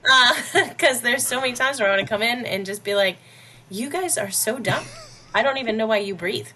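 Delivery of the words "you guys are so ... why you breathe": higher-pitched, exasperated put-down; mock scolding. Boss imagines telling off her employees, mock scolding. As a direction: berate them like a joking drill sergeant. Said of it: "would've made a great drill sergeant".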